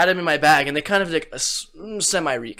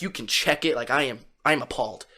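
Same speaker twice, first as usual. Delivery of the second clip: mock appalled; 3 semitones lower, 6 dB quieter than usual. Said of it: "I'm like".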